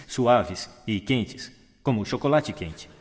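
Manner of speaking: rich warm voice. Shown as a demonstration. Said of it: "preferimos as vozes que são ricas".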